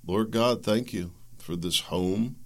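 soft and slow thanks to God; softly showing how to give thanks; quiet prayer. Shown as a demonstration. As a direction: murmur a short grateful prayer. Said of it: "it takes a second".

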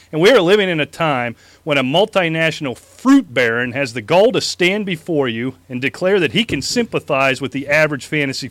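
mock presidential debate speech; hammed-up campaign oratory; megalomaniac rant. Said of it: "Straighten my tie".

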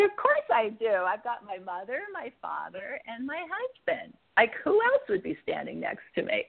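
high, eager certainty; lively high-pitched of course; excited retort. Retold or imitated.

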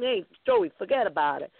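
put-on quick Bronx tough-guy accent. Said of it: "we had to do in a Bronx accent".

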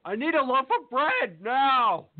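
acted line. Acting a scene take.

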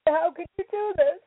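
angry, wounded question; hurt anger. Real, not acted. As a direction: demand an answer through grief. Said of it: "So angry".

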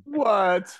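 high, loud startled what; mock bafflement at the question; surprised. Retelling a network question, a high startled what.

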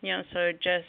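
slurred speech after jaw surgery; words mumbled through a stiff jaw; talking funny after jaw surgery. Real, not acted. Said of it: "Yes, I'm talking funny".

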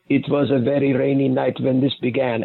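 light pseudo Russian or Polish accent; hint of a put-on Eastern European narrator accent; fake Russian accent. Shown as a demonstration. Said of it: "back in this fake accent".

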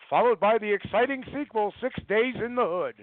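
booming movie-trailer announcer, pitched high; best announcer voice. Retold or imitated. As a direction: sell the fake sequel like a trailer voice. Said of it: "I do in my best announcer voice".

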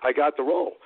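quick, mildly excited recounting; retold excitement. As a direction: eagerly report the news, at a fast clip. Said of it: "I was, like, excited".

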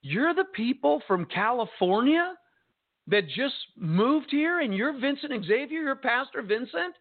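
imitated disbelief, rising as it goes; amazed recognition. Woman recognising the pastor from California, imitated amazement.

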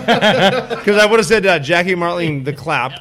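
talking through big laughs, slow; laughing out the words slowly; words half swallowed by laughter. Real, not acted.

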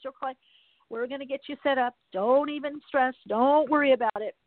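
put-on easygoing Southern accent, reassuring and lightly done; friendly Southern accent. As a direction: mimic a kind Southern tech-support guy. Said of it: "this amazing guy with this little Southern accent".

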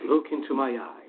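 low, mystical hypnotist command; stage hypnotist voice. Shown as a demonstration. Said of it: "can you do the stage hypnosis voice?".

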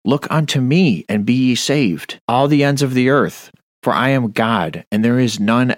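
high preached summons; preaching proclamation. Acted. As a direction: lift the voice as God's summons. Proclaims God's call.

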